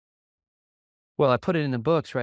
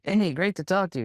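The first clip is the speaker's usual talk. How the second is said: fired up; 7 semitones higher than usual. Retold or imitated. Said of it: "he's fired up".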